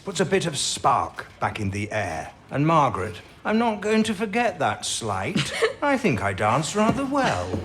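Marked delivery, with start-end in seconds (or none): 3.4-7.6 playful protest with a chuckle; amused mock offence. Boss teasing about a slight on his dancing, amused mock offence. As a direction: pretend to be wounded, chuckling.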